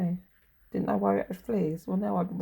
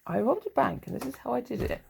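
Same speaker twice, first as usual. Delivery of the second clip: mock announcer; 4 semitones higher than usual. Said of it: "that sounds like fucking Tessa".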